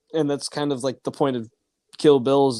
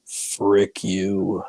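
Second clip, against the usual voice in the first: unvoiced whisper of a mock curse; whispered retort; 5 semitones lower than usual. Muttering back at the movie villain, whispered. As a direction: hiss it under your breath at the screen.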